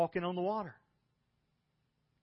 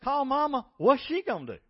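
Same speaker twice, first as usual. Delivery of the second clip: exasperated thought; 9 semitones higher, 7 dB louder than usual. Retold or imitated. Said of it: "but I'm thinking".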